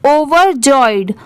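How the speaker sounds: very slow, drawn-out overjoyed; slow model word. Shown as a demonstration. Teacher models the word slowly for students to repeat. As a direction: stretch it out so the class can repeat. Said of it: "आप भी मेरे बाद repeat करिए".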